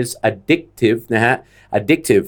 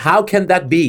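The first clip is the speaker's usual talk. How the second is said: How can that be, pitched up, stress on how; incredulous; 5 semitones higher, much slower than usual. Retold or imitated. Imitating people twenty years ago hearing coffee prices, incredulous. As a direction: sound like you can't believe it. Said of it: "ทุกคนจะต้อง".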